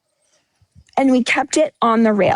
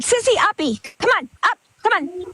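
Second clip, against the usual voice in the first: high, sing-song pet talk; coaxing the dog; 4 semitones higher than usual. Real, not acted. Owner calling her dog Sissy to jump up, high coaxing pet voice. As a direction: coax the puppy up, sweet and high.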